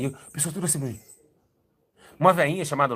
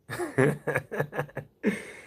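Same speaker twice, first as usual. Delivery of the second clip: a quick laugh, breathed out; short laugh. Real, not acted. Telling the church about his boast, laughing at himself. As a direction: laugh at yourself.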